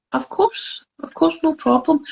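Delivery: mock-cheerful yes while dreading it inside; overly eager agreement. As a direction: chirp it out as if it's no bother at all. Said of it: "And I'm like".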